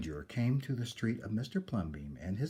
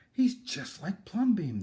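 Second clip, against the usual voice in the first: crowd exclaiming; 9 semitones higher, 7 dB louder than usual. Acted. Townspeople exclaim in chorus.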